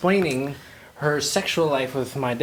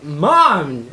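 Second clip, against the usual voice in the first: calling out; 6 dB louder than usual. Retold or imitated. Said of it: "and I yelled".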